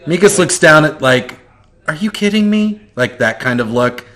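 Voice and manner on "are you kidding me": incredulous. Acted. Mikas's look voiced.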